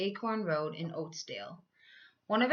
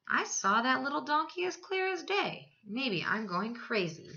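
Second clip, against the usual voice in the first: lion muttering; 5 semitones higher than usual. Acted. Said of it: "he muttered".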